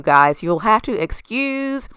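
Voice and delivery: lisping through new braces. Real, not acted. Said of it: "my lisp or just really Bugs Bunny type".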